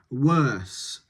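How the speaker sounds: "Worse" rounded, with a soft, barely there R. Shown as a demonstration. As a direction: round the lips and soften the R in "Worse". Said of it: "soften that R".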